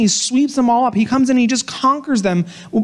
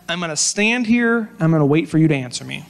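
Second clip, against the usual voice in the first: frustrated; 3 semitones lower than usual. Retold or imitated.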